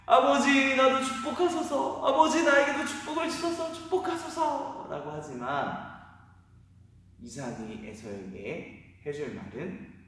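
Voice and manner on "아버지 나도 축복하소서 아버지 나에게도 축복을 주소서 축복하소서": much higher, louder tearful begging; wailing plea. Acted. Esau begging his father for a blessing, wailing. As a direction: beg through tears. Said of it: "울며 불며".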